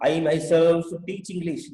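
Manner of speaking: very slow, word by word; slow classroom example; slow example sentence. Shown as a demonstration. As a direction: spell it out slowly for the class. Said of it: "teacher example sentence slowly".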